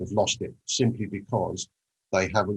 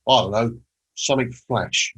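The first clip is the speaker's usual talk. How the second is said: put-on London accent; 2 semitones higher, 4 dB louder than usual. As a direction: drop into a broad London accent. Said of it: "in his broad London accent".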